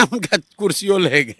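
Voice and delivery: laughing as the words come out; real laugh in the voice; amused chuckle. Real, not acted. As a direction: break into a chuckle on the punchline. Laughs at rival losing seat.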